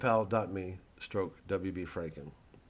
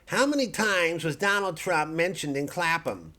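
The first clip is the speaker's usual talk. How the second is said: slow, loud, higher voice-search query; speaking to the search box; 8 semitones higher, 7 dB louder than usual. Pretend. Talking to his phone assistant, slow and loud. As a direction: spell it out loudly for the machine. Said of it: "I'm gonna type it in here".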